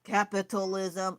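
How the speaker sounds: playfully flabbergasted, pitch up; retelling her inner shriek at capitalism; mock baffled outburst. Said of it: "So I was like".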